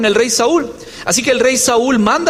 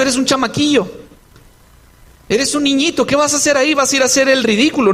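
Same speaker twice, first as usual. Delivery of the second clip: belittling, run-on scolding in mild scorn; contemptuous. Acted. King dismisses the boy challenger, mildly contemptuous. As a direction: talk down to him, lightly acted. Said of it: "aquí hay un tono despectivo".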